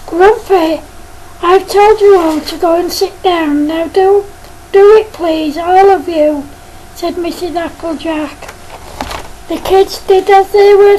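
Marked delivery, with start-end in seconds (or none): 0.1-6.4 a hint of a stern, slightly louder teacher. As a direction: scold the pupil firmly but lightly voiced. Teacher scolds the class.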